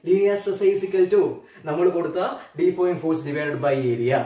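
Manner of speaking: slow, word by word; dictating while writing. Shown as a demonstration. Teacher to students writing the equation, slow dictation. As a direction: spell out the formula at writing pace.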